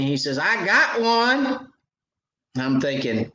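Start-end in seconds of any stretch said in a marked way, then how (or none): 0.4-1.7 put-on high, slow excited little boy call; excited kid yelling. Dad imitating his six-year-old calling out a catch, high and excited. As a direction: imitate his son hollering he's got a fish. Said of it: "he yells at me".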